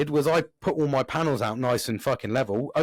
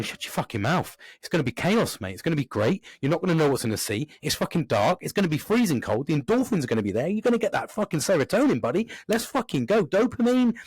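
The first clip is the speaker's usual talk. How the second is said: higher and higher with reckless glee; hyped inner voice; 5 semitones higher than usual. Retold or imitated. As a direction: pump yourself up like a hype man. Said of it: "the other side was going".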